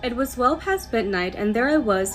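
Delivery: measured reading with rising phrase openings; story narration. A narrator's reading. Host reading a nurse's night shift tale, story narration. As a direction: read the spooky story aloud to listeners. Reads next submitted story.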